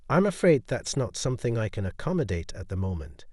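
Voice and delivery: even, steady refusal; calm and firm. Acted. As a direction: hold it calm but firm. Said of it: "her voice still calm".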